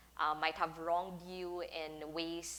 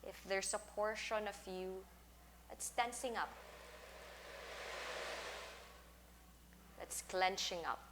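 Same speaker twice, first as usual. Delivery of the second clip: guided meditation; 4 dB quieter than usual. Acted. Teacher settles class lying down for a sound bath, guided meditation. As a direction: talk them gently into settling down, leaving space between phrases.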